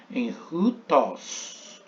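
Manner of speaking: "rutos" drawn out very slowly; slow demo. Shown as a demonstration. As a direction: stretch "em rutos" so every sound is heard. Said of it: "aspiração forte veio para a segunda vogal".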